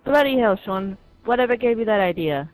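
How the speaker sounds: loud, high hammed-up British accent; mock British accent. Gamer playing a British guy in a loud mock British accent. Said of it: "That is a New York accent".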